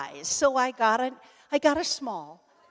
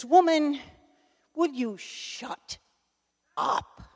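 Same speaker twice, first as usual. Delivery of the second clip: retold bellow; 3 semitones higher, slower than usual. Husband to his chattering wife on the porch, mock bellow. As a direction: imitate a fed-up bellow, drawing out each last word. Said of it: "he bellowed".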